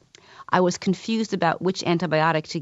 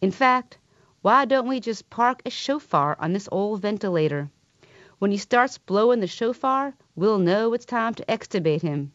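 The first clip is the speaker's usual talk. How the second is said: southern drawl; 4 semitones higher than usual. Retold or imitated. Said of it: "his dry Jewish wit and a southern drawl".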